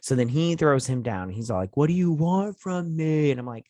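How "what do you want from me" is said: high, loud, slow furious demand; angry demand. Retold or imitated. Desperate father confronting the villain, loud and furious. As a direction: force the question out in rage.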